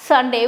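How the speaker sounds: Sunday said slowly and clearly; teacher's model Sunday. Shown as a demonstration. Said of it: "we can say this as".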